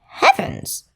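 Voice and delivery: high gasped exclamation; startled squeak. Acted. Mouse hears a hiss in the dark, high startled squeak. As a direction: jump up high in fright. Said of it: "said the mouse".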